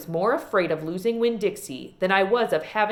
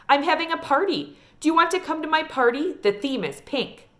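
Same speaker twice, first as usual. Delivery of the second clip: put-on higher, quick eager small-girl invite; excited little girl; 7 semitones higher than usual. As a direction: rush the party invite like a thrilled five-year-old. Child Sweetie Pie voiced.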